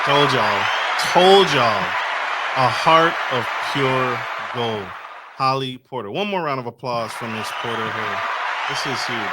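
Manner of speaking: loud, punchy announcer call, easing off; rally applause for the guest; show host hype. Acted. Host hypes guest to audience.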